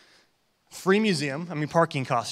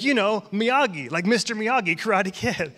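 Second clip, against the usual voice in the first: higher-pitched imitation of an eager chef; mildly excited retelling; 6 semitones higher, 4 dB louder than usual. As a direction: lightly act out his eager explanation. Voices chef excitedly naming the film.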